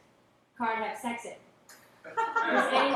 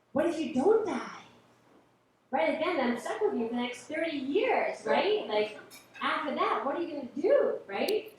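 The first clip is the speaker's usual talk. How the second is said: higher-pitched, lightly exasperated wife; mock exasperation; 5 semitones higher, 3 dB louder than usual. Wife facing thirty more years with her husband, mock exasperated. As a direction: plead the point in a raised, mock-exasperated voice. Wife's acted retort to husband.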